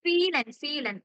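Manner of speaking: ഫീലൻ repeated, starting with an F. Shown as a demonstration. Teacher drilling the German V for the class. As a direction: give ഫീലൻ an F sound twice. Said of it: "എഫിന്റെ pronunciation".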